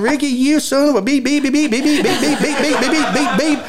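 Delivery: high-pitched mock tirade with bleeps; comic retold cursing, voice way up; imitated cussing. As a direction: act out the crew cussing, bleeping it in a rapid high string. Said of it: "crew is standing over here cussing at me".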